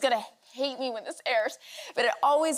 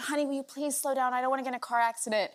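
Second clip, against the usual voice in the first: quick, rattled-off plea, a little softer; quoted plea; 4 dB quieter, much faster than usual. Retold or imitated. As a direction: rush out a polite request. Quotes own plea to husband.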